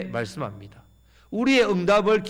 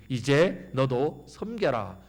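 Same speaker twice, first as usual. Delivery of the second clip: slow commands building louder; the Lord lays down duty after duty, growing louder; the Lord's demands; 3 dB louder, slower than usual. Pretend. Preacher voicing the Lord's call, slow then louder. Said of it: "말씀하시면 갑자기 마음이 무거워지죠".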